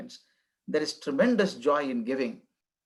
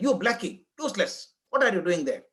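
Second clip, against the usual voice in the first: put-on drunk man shouting; 3 semitones higher than usual. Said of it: "he was shouting at the girl".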